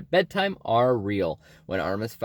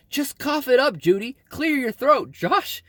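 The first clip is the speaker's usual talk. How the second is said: high-pitched mock yell at the screen; exasperated yelling; 9 semitones higher than usual. Reviewer heckling the actors' raspy voices on screen, exasperated mock yell. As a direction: raise the pitch sharply, as if heckling a film. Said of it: "I was practically yelling at the screen".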